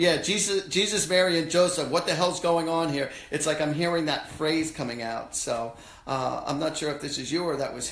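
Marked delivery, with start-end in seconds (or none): 0.0-3.1 mock exasperated outburst, a bit louder; exasperated exclamation. Imitating grandfather's exasperated habit phrase, loud. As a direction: throw up your hands at the chaos. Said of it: "somebody has a habit of saying".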